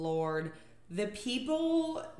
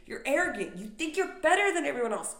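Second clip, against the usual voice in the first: snooty scolding retort, faster; mock scolding; 7 semitones higher, 3 dB louder, faster than usual. Mocking a seatmate, snooty scolding. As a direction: sneer it back at him. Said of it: "I was like".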